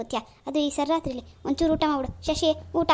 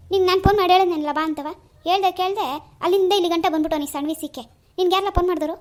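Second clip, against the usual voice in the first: angry scolding; 3 semitones higher, 6 dB louder than usual. Acted. Uncle scolds his nephew for rushing home, in a loud furious telling-off. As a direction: tear into the boy for coming without calling. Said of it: "ನೀನ್ ಯಾಕೆ ಸಿಟ್ಟು ಮಾಡ್ಕತಿ ಈಗ".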